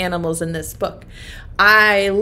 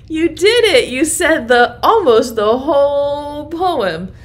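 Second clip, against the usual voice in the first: louder, celebratory congratulations; proud, raised-voice well done; excited praise; 5 semitones higher, 6 dB louder than usual. Real, not acted. Praises children for finishing the rhyme.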